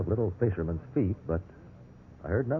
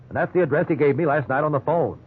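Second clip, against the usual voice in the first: much higher, urgent; anxious insisting; 6 semitones higher than usual. Acted. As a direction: prove it, almost frantic. Suspect pleads with note.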